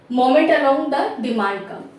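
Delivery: slow, deliberate, word by word; slow dictation. Shown as a demonstration. Teacher dictating the correct term slowly to students. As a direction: lay out each word so students can write it.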